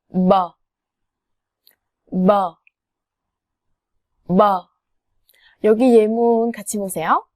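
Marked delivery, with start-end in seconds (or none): 0.1-4.7 뭐 said with lips, no air puff; Vietnamese sound demo. Shown as a demonstration. Teacher models 뭐 for students to repeat, clear lip sound. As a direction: model 뭐 slowly for learners. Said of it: "그러면 따라해보세요".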